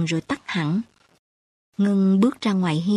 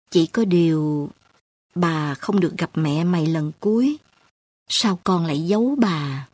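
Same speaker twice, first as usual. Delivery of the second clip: sighing grandmother; 2 semitones lower than usual. Acted. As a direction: sigh it out gently. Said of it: "Bà thở dài bảo Ngân".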